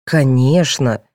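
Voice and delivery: ordinary delivery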